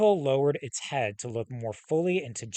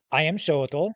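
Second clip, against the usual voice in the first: slow name; 2 semitones higher, 6 dB louder than usual. Acted. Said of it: "Let me say that slowly".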